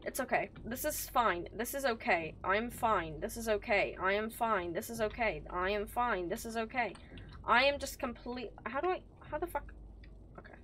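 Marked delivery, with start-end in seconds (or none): 0.1-6.9 soft, low repetitive muttering; quiet mantra to stay calm; self-soothing. Real, not acted. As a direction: chant it softly under the breath, evenly. Self-soothing chant after "gonna cry.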